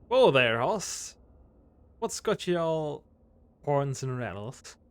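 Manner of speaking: a mild Western drawl, calling out; cowboy drawl. Acted. Cowboy character greeting Clyde, lightly drawled Western voice. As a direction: talk like an old prospector.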